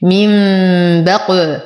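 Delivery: من بق with hummed "m", then bouncing ق; qalqalah on qāf. Shown as a demonstration. Teacher showing qalqalah, bounced ق after the hum in من بق. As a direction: echo the ق at the end of بق. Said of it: "وقلقل القاف".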